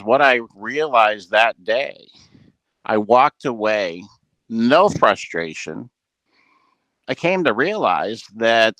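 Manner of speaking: measured retelling with deliberate pauses. Retold or imitated. Retells coach's lesson as quote.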